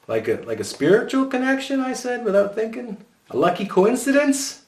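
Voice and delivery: high, blurted excuses; nervous boy voice. A narrator's reading. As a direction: blurt it without thinking.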